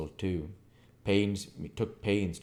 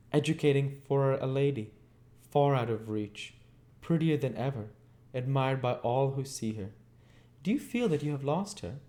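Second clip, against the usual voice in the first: put-on high, gloating old woman savoring his loss; malignant enjoyment; 9 semitones higher than usual. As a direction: twist the knife with relish. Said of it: "such a malignant enjoyment in her utterance".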